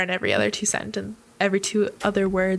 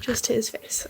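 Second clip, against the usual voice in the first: whisper; 5 dB quieter than usual. Real, not acted. Whispered aside at table.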